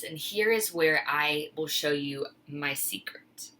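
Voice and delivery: hushed secret-sharing whisper; conspiratorial whisper. Real, not acted. Reveals secret cooking tip.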